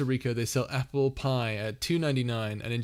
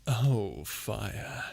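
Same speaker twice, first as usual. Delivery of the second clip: whispering; 2 semitones lower, much slower than usual. Shown as a demonstration. Dad joke, quiet creepy voice.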